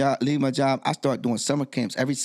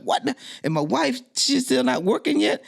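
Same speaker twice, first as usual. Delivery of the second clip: high, alarmed question; panicked disbelief; 10 semitones higher than usual. Retold or imitated. Panicking to his mom about his wife, high and alarmed. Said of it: "I was saying to my mom".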